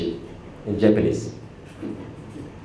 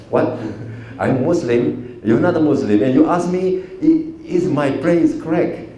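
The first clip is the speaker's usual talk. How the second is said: incredulous, raised pitch; retold indignant surprise; 5 semitones higher than usual. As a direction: replay the shock of being questioned. Retold shocked reply to sensei.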